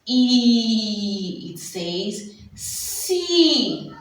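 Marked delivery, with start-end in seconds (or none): 1.5-3.9 sounding out C slowly; letter sounds. Shown as a demonstration. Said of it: "See what?".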